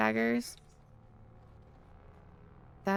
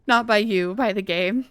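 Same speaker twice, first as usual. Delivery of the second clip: laughing apology; 3 semitones higher, 8 dB louder than usual. Real, not acted. Laughing reassurance to the viewer.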